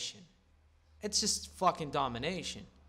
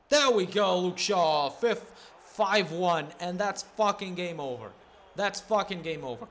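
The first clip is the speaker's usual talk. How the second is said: excited yelling; 2 semitones higher, 5 dB louder than usual. Real, not acted. Gamer cheering his fifth goal, loud and excited. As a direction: shout it out, thrilled by the goal.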